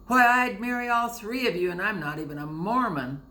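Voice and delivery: loud, high boorish taunt; taunting sailor. A narrator's reading. Titus mocking the three girls, boorish. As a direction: bellow it to make them blush.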